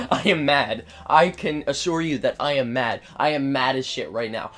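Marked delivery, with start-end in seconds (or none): 0.1-0.8 laughing mad. Real, not acted.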